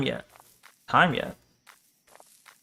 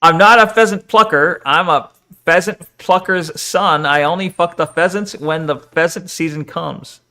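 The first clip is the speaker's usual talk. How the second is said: careful tongue twister. Shown as a demonstration. Streamer showing chat the pheasant plucker rhyme, careful tongue-twister delivery. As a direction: recite it as a tongue twister, emphatic at the start. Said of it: "Look, this is a tongue twister".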